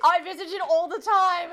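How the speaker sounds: high, loud mock Irish; bad fake Irish accent. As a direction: protest in a badly faked Irish accent. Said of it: "These accents right now".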